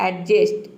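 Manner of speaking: एडजस्ट said with the d sounded, "ed-just"; the mistaken एडजस्ट, d pronounced; wrong pronunciation. Shown as a demonstration. Teacher mimics students saying एडजस्ट with the d. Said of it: "ये एडजस्ट नहीं होता है".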